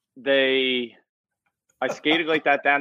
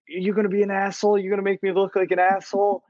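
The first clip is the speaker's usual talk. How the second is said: raised pitch, rapid exasperated ref; mock referee yelling; 6 semitones higher, faster than usual. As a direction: imitate a rattled ref telling off a player. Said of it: "like, yelling at me".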